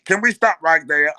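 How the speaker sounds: put-on loud pleading girlfriend voice; heavy girlfriend voice. Girlfriend begging to stop at McDonald's, heavy voice. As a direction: beg for McDonald's in her heavy voice. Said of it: "she got a heavy voice".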